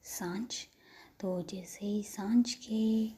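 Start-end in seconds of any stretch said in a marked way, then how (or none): 0.0-0.5 soft, tender whisper of her name; a girl lovingly greeting her crush. Acted. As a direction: say the name full of affection. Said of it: "बहुत प्यार से कहती है".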